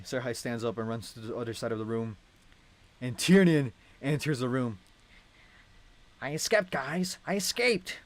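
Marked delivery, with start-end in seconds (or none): 6.2-8.0 high, excited shout of relief; excited escape. Acted. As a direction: burst in crowing with joy. Student bursts in excited.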